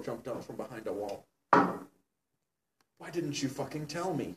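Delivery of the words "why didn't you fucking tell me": slow, drawn-out mock shout, a little louder; half-hearted hammed-up yell, stretched out slowly. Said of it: "he shouted".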